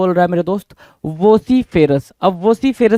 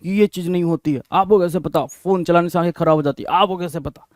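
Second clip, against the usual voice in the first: retold kid yelling; 5 dB quieter than usual. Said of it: "तो लल्ला चिल्ला रहा है".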